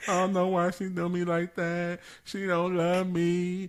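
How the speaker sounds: slow, whiny fake sob; hammed-up crying voice; mock crying voice. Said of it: "This, this is my crying voice".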